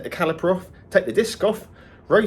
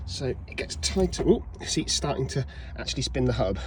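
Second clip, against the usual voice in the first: breathless, panting between words; out of breath; 5 dB quieter than usual. Real, not acted. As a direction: talk while catching your breath. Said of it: "Sorry I'm out of breath".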